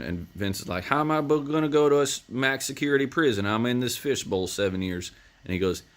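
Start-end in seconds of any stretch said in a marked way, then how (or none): 0.8-5.1 higher, pitched-up mock panic; panicked disbelief. Vince balks at the order to go to max prison, mock panicked. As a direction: squeak out the disbelief.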